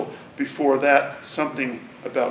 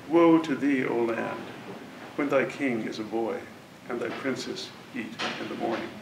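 measured, solemn verse reading; poem reading. Acted. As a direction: read it like an old proverb. Reads a scripture-like verse.

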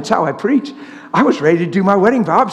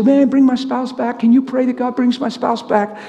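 mock pleading, pitched up; 6 semitones higher than usual. Preacher mimicking people asking for spouse back, pleading. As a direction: imitate an earnest, higher-voiced plea.

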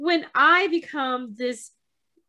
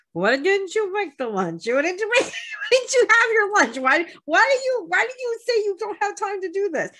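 light mock German accent, pitch climbing higher; teasing German accent; 7 semitones higher than usual. Host teasing co-host about skipped lunch, mock German accent. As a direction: tease a friend in a gentle German accent. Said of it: "with your little German accent".

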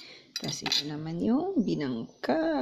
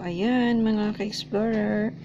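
hiccuping mid-sentence; with hiccups; 3 semitones higher, slower than usual. Real, not acted. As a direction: talk through a bout of hiccups.

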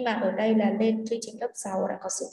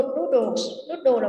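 "noodles" stressed on NOO; stress on first syllable; 3 semitones higher, 4 dB louder, much slower than usual. Shown as a demonstration. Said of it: "trọng âm số một". (nhấn âm đầu của "noodles")

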